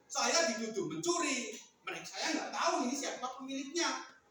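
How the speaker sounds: acted aggrieved protest; mildly indignant clamour; noisy complaining. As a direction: complain of a false accusation. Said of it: "Ributlah si pengembala".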